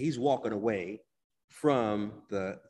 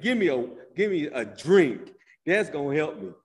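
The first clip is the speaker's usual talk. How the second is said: loud, higher mock plea for a drink; retold demand for a drink; 6 semitones higher, 10 dB louder than usual. Grieving teen shouting at his family for a drink, loud mock plea. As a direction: belt it out like a grieving teen begging. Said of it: "I said".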